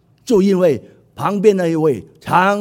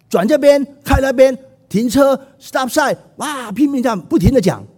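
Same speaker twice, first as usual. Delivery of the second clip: husband complaining; 2 semitones higher, 3 dB louder than usual. Retold or imitated. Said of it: "那先生说".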